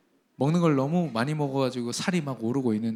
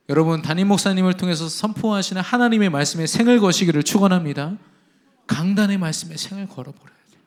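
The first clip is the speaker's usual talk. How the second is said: full-force preaching; 3 semitones higher, 6 dB louder than usual. Acted. Pastor exhorting his congregation, preaching at full force.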